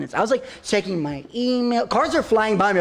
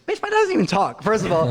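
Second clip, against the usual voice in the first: mock indignant retort. Retorting to mom, high pitch.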